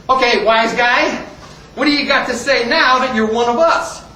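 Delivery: lightly acted taunting officer; challenging colonel. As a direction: confront the wise guy as his commander. Colonel challenges the new recruit.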